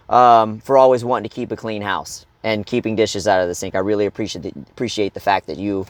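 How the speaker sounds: a hint of calm husband, gently appreciative; calm apology. Husband answering wife about the dishes, lightly calm. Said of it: "instead of popping off, you can be like".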